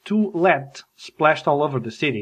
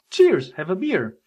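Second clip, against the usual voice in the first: raised-voice drinker's toast, higher pitched; mock toasting; 4 semitones higher than usual. Thanking someone for the door, mock pub toast. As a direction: toast as if every thanks were a round. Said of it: "they're toasting".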